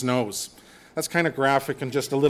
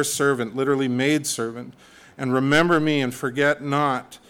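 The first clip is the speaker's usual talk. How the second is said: earnest prayer reading. Acted. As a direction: read it as a heartfelt plea to God. Reading Hannah's prayer aloud.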